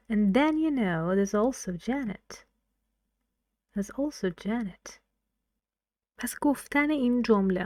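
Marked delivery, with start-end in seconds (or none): 0.1-2.3 "then" raised, "also Janet" slow and falling; stress on then and also. Shown as a demonstration. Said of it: "We have just two in here". 3.7-4.9 "also" hit, "Janet" softer and falling; stress on also. Shown as a demonstration. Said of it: "We have just two in here".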